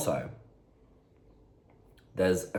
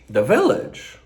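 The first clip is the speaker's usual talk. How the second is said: Drag Race meme; 6 semitones higher, 10 dB louder than usual. Retold or imitated. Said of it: "That's a Drag Race meme".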